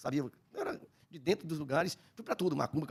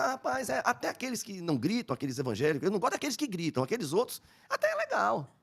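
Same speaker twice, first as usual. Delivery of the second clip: flattering; 6 semitones higher than usual. Retold or imitated. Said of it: "Eu querendo ganhar com expertise".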